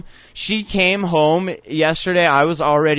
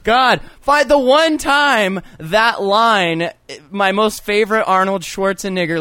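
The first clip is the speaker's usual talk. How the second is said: exasperated; 3 semitones higher than usual. Real, not acted. Host laments a missed joke, exasperated. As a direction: stretch it out in comic frustration.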